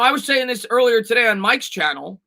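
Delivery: ordinary delivery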